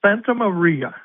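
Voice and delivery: announcer's catchphrase. Shown as a demonstration. Announcer showing his own favorite term, lightly called out. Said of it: "Mine is".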